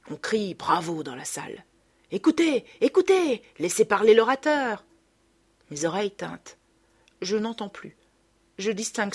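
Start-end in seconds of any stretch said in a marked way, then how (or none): 2.1-4.8 high, loud mock call for silence; mocking heckle. A narrator's reading. Diners mockingly hushing the room for the mother. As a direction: jeer at the speaker.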